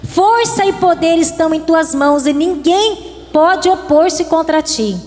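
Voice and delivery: prayerful reading. Acted. Pastor reading prayer aloud.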